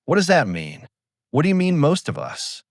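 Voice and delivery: frightened crew man voice breaking; voice cracking. A narrator's reading. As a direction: pitch climbing on "most of us" as the voice cracks. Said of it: "Brenner's voice cracks".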